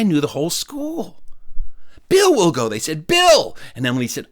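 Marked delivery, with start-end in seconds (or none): 2.1-2.7 high-pitched classmates piping up; imitated eager schoolkid shout; volunteering someone. 3.1-3.6 very high, loud schoolkid call; imitated kids' high-pitched call. Classmates call his name.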